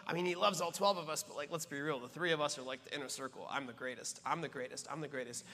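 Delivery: boastful disciples. Retold or imitated.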